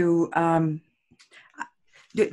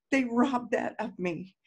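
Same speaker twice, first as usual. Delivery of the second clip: hurt; 3 semitones higher, 4 dB quieter than usual. Shown as a demonstration. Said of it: "whatever it is that you're feeling".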